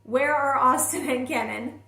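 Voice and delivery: mild mock scream, building on the repeat; retold scream. Mother bursting into the school office looking for kids, retold scream. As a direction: imitate a panicked yell without going full out. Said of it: "I scream out".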